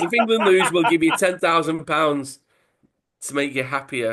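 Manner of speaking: loud, high mock Italian mobster, laughing; Italian accent. Italian accent, mobster offering the striker money. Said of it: "same accent".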